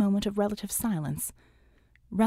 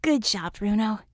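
warmly. Acted. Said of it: "Bella told him warmly".

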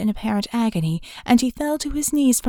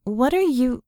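rising alarm; 4 semitones higher than usual. Acted. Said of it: "her voice rising with alarm".

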